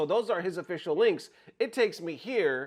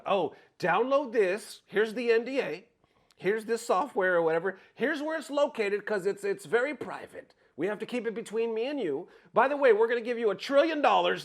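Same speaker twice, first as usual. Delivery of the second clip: higher, eager mock sales pitch; scammer's pitch; 5 semitones higher than usual. Scammer talking a creator into a download, mock pitch. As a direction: lightly imitate a pushy scammer. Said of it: "they'll be quick to give you a code".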